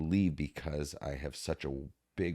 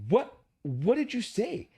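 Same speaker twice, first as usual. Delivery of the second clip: slow, much higher imitation of his wife asking; wife's voice; 6 dB louder, slower than usual. Wife asking husband what he said, slow high imitation. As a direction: voice his amazed wife, drawn out. Wife asks after the hug.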